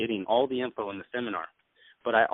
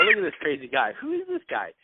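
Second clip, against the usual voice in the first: high, mocking crowd voice, much higher pitch; a laughing audience teasing the guy in the wig; mock crowd jeer. Speaker imitating the crowd mocking his wig, high mock jeer.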